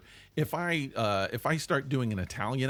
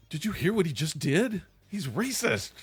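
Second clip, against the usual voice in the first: mock shock; 3 semitones higher than usual. Imagined shocked listeners to accent.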